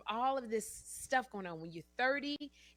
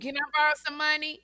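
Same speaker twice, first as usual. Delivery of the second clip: higher, loud, fast begging; pleading borrower; 8 semitones higher, 11 dB louder, faster than usual. Acted. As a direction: rush the ask like a pushy friend. Acting out a money-borrowing friend.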